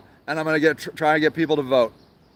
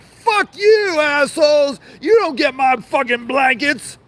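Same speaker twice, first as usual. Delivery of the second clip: imitating angry Jesus; 7 semitones higher than usual. Jesus refusing blankets to hypocrites, high mock yell. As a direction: bellow it as a fed-up Jesus would. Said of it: "That guy would be like".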